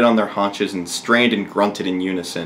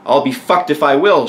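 higher-pitched defiant refusal; mild shout; 5 semitones higher, 4 dB louder than usual. Acted. Queen refusing the king's order, shouting mildly. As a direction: refuse with a raised, indignant voice. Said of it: "shouted the queen".

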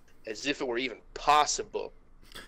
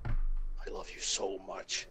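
tender whisper; 4 semitones lower, 6 dB quieter, slower than usual. Acted. Nick hugging Judy, overjoyed.

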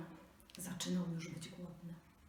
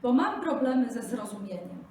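high, loud eager small animal; little jackal; 5 semitones higher, 12 dB louder than usual. Acted. Jackal asks slow speech.

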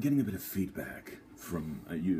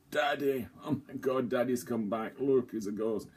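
mock excited; 6 semitones higher than usual. Mocking the audience at the ghost.

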